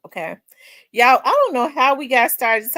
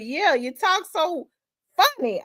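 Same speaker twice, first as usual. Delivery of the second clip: high, slow mock Cajun country guy; old country Cajun; 9 semitones higher than usual. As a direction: mimic a Cajun swamp man, stretched out and pitched up. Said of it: "He sounded like an old country Cajun guy".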